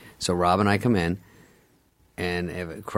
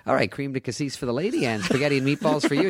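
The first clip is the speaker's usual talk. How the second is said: higher-pitched mock waiter; confident waiter; 6 semitones higher than usual. Waiter bringing the couple their food, confident. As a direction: breeze through a wrong order as the waiter. Waiter reads back wrong order.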